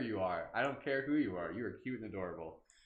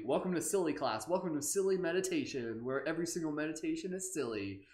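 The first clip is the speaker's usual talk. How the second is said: higher, playful announcement; 5 semitones higher than usual. Real, not acted. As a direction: announce it with goofy glee. Playful announcing silly class.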